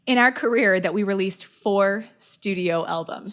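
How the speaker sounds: slow, measured clue reading; deliberate pace, spacing out the phrases. Real, not acted. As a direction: read the clue out slowly. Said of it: "I'm gonna read it slow".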